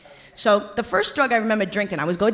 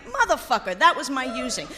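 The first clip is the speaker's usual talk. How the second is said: laughing quote; 4 semitones higher than usual. Retold or imitated. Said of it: "and he says".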